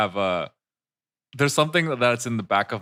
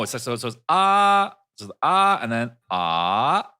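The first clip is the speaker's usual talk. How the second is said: sing-song tone demo. Shown as a demonstration. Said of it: "it's up and down".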